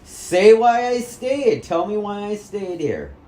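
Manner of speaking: loud, high, slow demand; angry shout. Real, not acted. Son shouting at his mother to answer. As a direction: shout the order at her.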